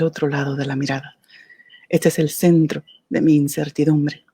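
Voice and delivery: measured poem reading with pauses between phrases; poetry recital. Acted. Recites her own poem. (recitando un poema, con pausas entre versos)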